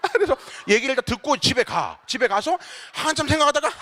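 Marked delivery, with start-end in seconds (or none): none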